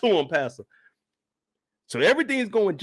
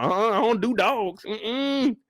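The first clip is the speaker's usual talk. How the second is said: dismissive lady; 5 semitones higher, slower than usual. Retold or imitated. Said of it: "she gonna be like".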